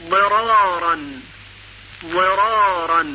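ضرارا with zad and kasra; teacher modelling; model pronunciation. Shown as a demonstration. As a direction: say ضرارا carefully. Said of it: "زاد مکسور مثل".

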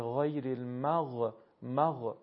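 wrong «مغ-» with an extra puff after the غ; mispronounced sukun. Shown as a demonstration. Teacher warns against moving the letter, «مغ-» released with a bounce. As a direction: let the غ in «المغ-» bounce into a short vowel. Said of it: "نمیشه".

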